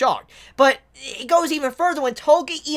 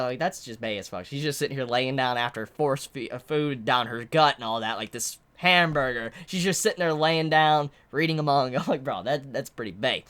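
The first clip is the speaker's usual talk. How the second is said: soft gushing; 9 semitones lower, 5 dB quieter than usual. Real, not acted. Soft gushing about Toka.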